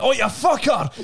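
sudden pained yell; shout. Retold or imitated. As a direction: yell out as if deafened. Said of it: "He went".

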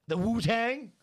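high, loud disbelieving "The Wu-Tang?"; surprised. Real, not acted. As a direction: shoot up in disbelief. Surprised by the pun.

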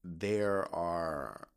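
cracking voice, slow. Real, not acted. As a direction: let the voice crack as you speak. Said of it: "why is my voice cracking?".

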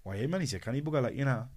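lightly attempted Geordie accent; rough imitation of a Geordie. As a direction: have a go at a jokey Geordie. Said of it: "in his Geordie accent".

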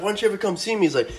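hammed-up comedian voice; Cat Williams impression. Retelling a comedy bit to viewers, mock comedian voice. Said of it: "the Cat Williams thing".

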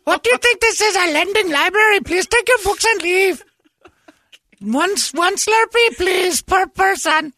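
put-on dole out Slurpees in a faint Indian accent; bad Indian accent. Clerk shooing customers from his shop in a bad Indian accent. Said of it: "I can't do the accent very good".

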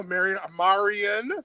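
Marion said slowly, both MEH-ree-un and MAH-ree-un; careful pronunciation. Real, not acted. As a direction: Marion tried twice. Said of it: "I wanna make sure I say that correctly".

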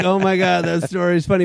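high mock gushing; retold flattery. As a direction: imitate a polite listener claiming to be amused. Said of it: "they claim, they're like".

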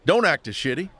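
a wife's half-yelled scolding; mild yell. Acted. Wife scolding her husband from the kitchen, mild yell. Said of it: "his wife yelled from the kitchen".

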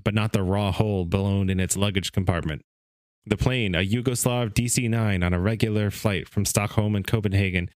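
measured read-aloud narration; story reading. Acted. Host reading a book's story to his co-hosts, narrating. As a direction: read the account like an old magazine story.

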